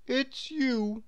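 glum, drawn-out recognition; mildly dejected greeting; gloomy. A narrator's reading. Mister Tall spots Mister Small, gloomily.

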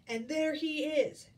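giant's roar. A narrator's reading. Giant spots Jack escaping, roared discovery. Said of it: "roared the giant".

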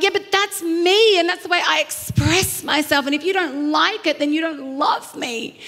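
a touch of indignant huffing; mildly indignant retort. Retold or imitated. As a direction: play the self-righteous girlfriend lightly. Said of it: "be indignant about it".

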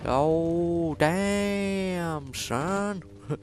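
high, loud hyped yelling; excited shout. Real, not acted. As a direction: hype it up loudly. Excited exclamation in fight.

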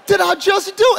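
rising, drawn-out disbelief; acted astonishment at yourself; incredulous realization. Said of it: "you realize".

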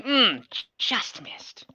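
breathy whisper of a near miss; whispered aside. Real, not acted. GM whispering to the player over the miss. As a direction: hush it like a close call.

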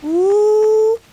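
high, startled ooh; a sudden squeak of surprise; surprised ooh. Real, not acted. Hit in game, reacts.

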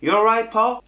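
put-on Manchester accent. Waiter copies the coworker's greeting, Manchester accent. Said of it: "Yo decía".

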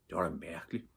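soft, puzzled musing; subdued inner voice; thinking to oneself. A narrator's reading. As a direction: wonder quietly to yourself. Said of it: "tænkte Topper".

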